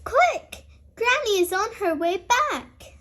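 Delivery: high, hurried quick; urgent warning. Acted. Peppa warns Grandpa that Granny is coming: urgent high call. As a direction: hurry him along.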